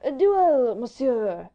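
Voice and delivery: put-on high, loud indignant French accent; choked wrath. A narrator's reading. Enraged Vicomte demanding a duel, indignant outburst. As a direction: burst out with it, high and furious. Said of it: "choked in his throat by his surging wrath".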